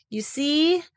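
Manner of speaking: unvoiced, hesitant whisper; whispered hesitation. Pooh struggles to explain, whispering. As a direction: fumble for words.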